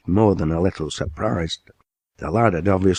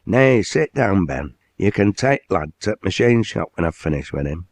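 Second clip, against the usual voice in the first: hearty mill owner; 2 semitones higher than usual. Acted. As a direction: greet the lad like a proud northern boss. Owner orders works manager.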